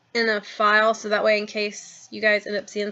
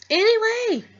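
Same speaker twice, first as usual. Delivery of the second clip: much higher, lilting anyway; sing-song change of subject; 13 semitones higher, 5 dB louder, slower than usual. Real, not acted. Shaking off annoyance for her viewers, high sing-song. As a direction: swing the word up to move on.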